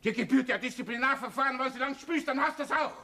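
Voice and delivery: high angry scolding; berserk rage. Acted. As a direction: rant at him, still raging. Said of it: "wenn er so herumbrüllt".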